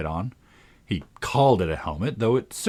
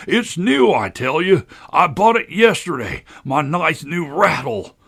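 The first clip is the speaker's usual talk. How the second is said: loud, high screech of outrage; hysterical, high-pitched fury; furious screaming tantrum; 8 semitones higher, 7 dB louder, slower than usual. A narrator's reading. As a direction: scream it, drawing out the last words. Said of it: "his voice rose to a perfect scream".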